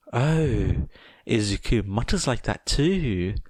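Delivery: delight in the likeness; happy mum. Acted. Mother happily comparing Tomura to Izuku.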